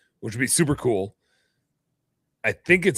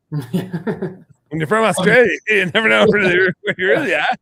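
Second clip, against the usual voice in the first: Australian accent pitched high and loud, hammed up; mock Australian accent; 9 semitones higher, 8 dB louder than usual. Joking to hunting buddy in a hammy Australian accent. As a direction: play a loud cartoon Aussie, much higher.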